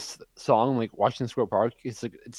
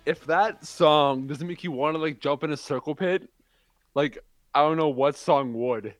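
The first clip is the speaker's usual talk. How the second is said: out of breath; 4 semitones higher than usual. Real, not acted. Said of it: "I'm winded".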